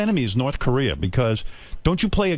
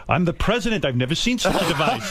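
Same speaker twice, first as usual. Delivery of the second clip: lightly voiced baffled old-time president, a touch higher; mock-formal puzzlement, hint of a historical statesman; Lincoln; 4 semitones higher than usual. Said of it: "walking around all day as Lincoln".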